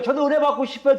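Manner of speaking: high, pleading believer's voice; imitated high-pitched plea; frustrated churchgoers. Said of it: "답답해 죽겠대요".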